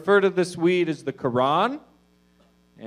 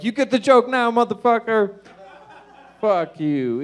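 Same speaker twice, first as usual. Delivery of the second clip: loud, high acted-out taunt; hammed-up shouted taunt; mock triumphant yell; 7 semitones higher, 8 dB louder than usual. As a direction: yell it like you are pelting him. Acted taunt while throwing rocks.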